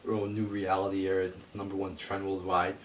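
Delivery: lightly mocking, near plain voice; mild mocking quote. Quoting fans' tweets with a light mocking tone. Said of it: "I see people tweeting out this".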